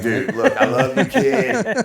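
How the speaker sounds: loud, laughing dad voice rising high; laughing scold. Retold or imitated. Dad scolding his son while laughing. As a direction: crack up while telling the kid off.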